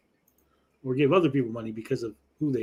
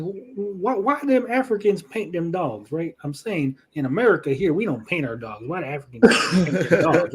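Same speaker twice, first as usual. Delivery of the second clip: lightly hammed-up Southern American accent; Southern white guy; 2 semitones higher than usual. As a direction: wonder aloud as a puzzled Southern guy. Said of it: "Southern white guy voice".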